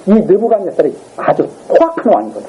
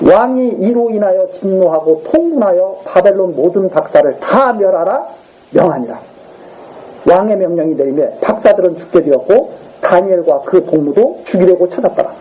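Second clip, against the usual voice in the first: scripture reading. Acted. Reads scripture aloud. (느리고 엄숙한 성경 낭독)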